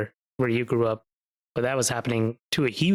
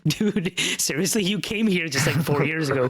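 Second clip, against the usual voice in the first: higher, incredulous dude-seriously; exasperated retort; 4 semitones higher than usual. Retold or imitated. Student retelling his reply to a teasing guy, exasperated. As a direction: push back on the teasing in disbelief. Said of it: "I was like".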